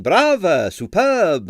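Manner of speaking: audience shouting. Retold or imitated. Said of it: "Many of them were on their feet shouting".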